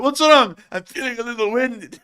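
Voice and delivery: high, loud mock-startled soldier; startled Russian soldier. Imitating Russians hit by a shockwave, startled and high. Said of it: "and then they went".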